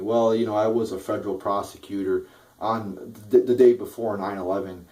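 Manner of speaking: mocking Chris Christie. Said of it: "same fucking story from Chris Christie".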